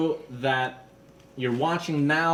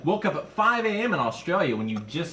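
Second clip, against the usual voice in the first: put-on Australian accent; 5 semitones higher than usual. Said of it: "Did you like my Australian accent there?".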